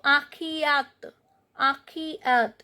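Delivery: "akhiyat" ending on T, no E; silent last E. Shown as a demonstration. Teacher showing the silent E, "akhiyat" ending on T. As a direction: sound out "akhiyat" slowly, stopping at the T. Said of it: "last E is not pronounced".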